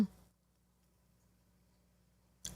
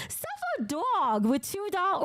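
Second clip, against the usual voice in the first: high, drawn-out Jersey accent; 6 semitones higher than usual. Real, not acted. Streamer reads a donor's silly name, Jersey accent slipping out. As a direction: let a Jersey accent slip out excitedly. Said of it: "my Jersey accent just came out".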